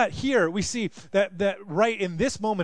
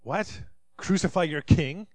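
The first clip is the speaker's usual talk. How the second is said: mocking Pilate. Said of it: "still in this mocking mood".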